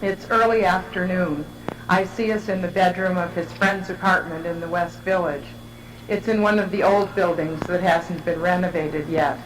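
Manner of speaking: measured, evenly paced reading aloud; literary reading. Real, not acted. Writer reading their descriptive portrait to an audience, measured literary reading. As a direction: read it in deliberate phrases, pausing between images. Reads her written piece aloud.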